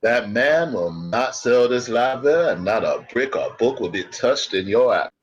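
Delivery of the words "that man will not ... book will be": put-on cowboy accent. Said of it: "you must stop that accent".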